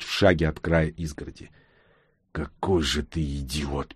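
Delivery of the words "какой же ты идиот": slow, low, hushed rebuke; soft and drawn out; whispered exasperation. A narrator's reading. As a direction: murmur the insult under your breath. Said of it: "прошептал Бур".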